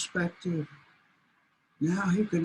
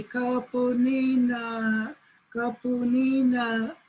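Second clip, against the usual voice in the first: slow, higher, drawn-out wail; lost coyote lament; 4 semitones higher, slower than usual. Acted. Coyote, blinded, wails slowly to himself. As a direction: moan while groping blind.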